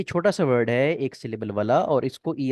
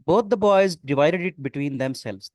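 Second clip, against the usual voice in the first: slow sentence read; 4 dB louder, much slower than usual. Shown as a demonstration. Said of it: "reading exam sentence aloud".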